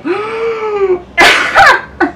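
high, drawn-out squeal breaking into laughter; overjoyed squeal. Real, not acted. Vlogger overwhelmed by her friend's gift, overjoyed squeal. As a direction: squeal as if about to cry with joy.

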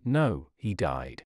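a mild tender hush, slow and low; sweetly hushed. A narrator's reading. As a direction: answer gently, drawing it out low. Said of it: "Sweetly it was whispered".

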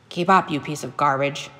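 put-on understated grumbling old hunter; angry grumble. Old hunter scolding his dog for lagging, angry grumble. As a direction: grumble with a touch of anger. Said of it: "he grumbled angrily".

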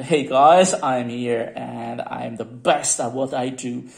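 a hint of a boastful superhero. Showing viewers a figurine, light superhero boast. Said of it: "in a pose like a superhero".

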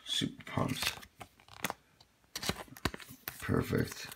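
softly whispered delight; quiet whisper of excitement. Real, not acted. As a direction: whisper it while focused. Whispered while sleeving card.

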